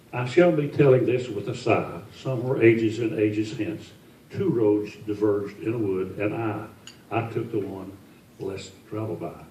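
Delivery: put-on an old man reciting Frost with feeling; poem reading. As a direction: read the verse aloud with care, like a recital. Reads last stanza of poem.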